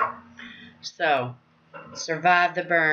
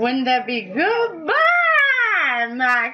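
hammed-up tearful goodbye, slow; mock crying; 4 semitones higher than usual. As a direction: fake sob through the farewell.

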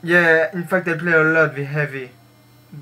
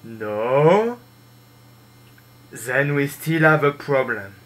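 a mild put-on French accent as the Spy; French spy impression; 3 semitones lower than usual. Gamer greets his teammates in a light French spy accent. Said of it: "that was my imitation of spy".

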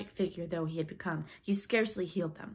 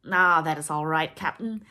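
easygoing, self-satisfied reassurance; complacent; 11 dB louder than usual. A narrator's reading. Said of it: "Smee answered complacently".

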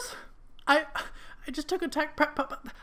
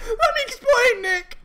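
tearful plea; 8 semitones higher, 5 dB louder than usual. Acted. Judy pleads during argument.

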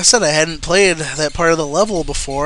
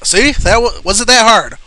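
sarcastic angry jab; 4 semitones higher, 4 dB louder than usual. Real, not acted. Frustrated gamer yelling at game.

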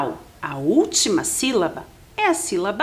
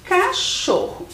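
CACHORRO slow, split after the first syllable; syllables marked out; 10 semitones higher, slower than usual. Shown as a demonstration. Teacher asking pupils to count syllables, cachorro slowly divided. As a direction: say cachorro slowly as ca, then chorro, pitched higher. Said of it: "quantas sílabas tem a palavra".

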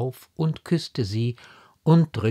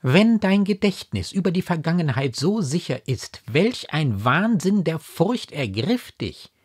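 high, emphatic remonstrance; raised voice, pressing the questions; exasperated, incredulous mother; 8 semitones higher, 5 dB louder than usual. A narrator's reading. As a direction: argue with her in disbelief.

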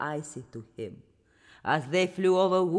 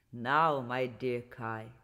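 Snow Queen voice; 8 semitones lower, slower than usual. Acted. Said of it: "said the Snow Queen".

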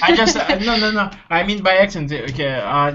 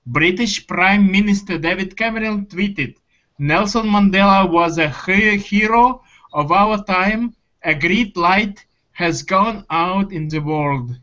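very Russian accent. Shown as a demonstration. Student reading tweet to teacher for fun, Russian accent. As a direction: read it in a thick Russian accent, drawing it out. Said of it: "this was a Russian accent".

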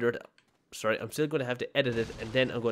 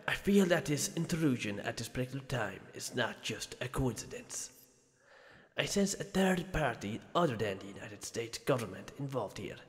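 lightly hammed-up Spanish accent; bad Spanish accent. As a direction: read it in a clumsy mock Spanish accent. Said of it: "worst Spanish accent ever".

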